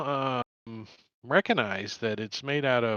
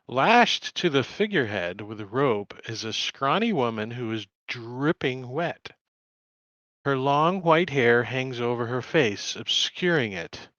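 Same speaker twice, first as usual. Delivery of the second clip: game master setting the scene; scene narration. A narrator's reading. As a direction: read the boxed text aloud. GM reading scene description.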